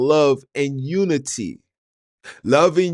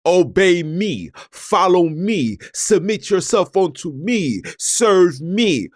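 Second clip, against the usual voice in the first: a touch of a master giving orders, higher; mock God speaking as a ruler, not a father; commanding ruler; 5 semitones higher than usual. Preacher voicing God ordering his servants, mildly commanding. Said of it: "That's how he talks".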